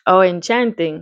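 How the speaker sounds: put-on lightly done Caribbean accent for a doctor. Doctor greeting a worried mother, light Caribbean accent. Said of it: "I'm gonna give him a Caribbean accent".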